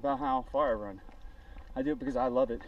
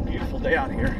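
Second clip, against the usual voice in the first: raised voice over wind; loud outdoors; 10 semitones higher, 6 dB louder than usual. Real, not acted.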